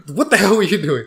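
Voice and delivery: mock scolding mom. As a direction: imitate a mildly exasperated wife. Mom retold scolding the dad.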